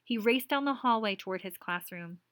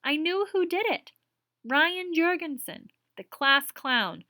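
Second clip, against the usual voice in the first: louder, slow, bitter venting; upset teacher; 8 semitones higher, 8 dB louder than usual. Acted. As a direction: spit out the culprit's name. Madge venting.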